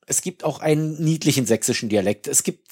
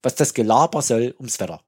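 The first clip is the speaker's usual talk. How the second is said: loud, higher Saxon official ranting; 7 semitones higher, 8 dB louder than usual. Retold or imitated. Quoting a comedy Saxon official, loud and ranting. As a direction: bellow it like a Saxon functionary. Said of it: "Das ist hängen geblieben".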